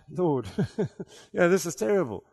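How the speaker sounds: quiet aside to the Lord, breaking into a laugh; amused retold prayer. Preacher recalls watching his friend in worship, amused, quiet aside. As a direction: murmur it to God, laughing midway. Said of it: "looking at this guy going".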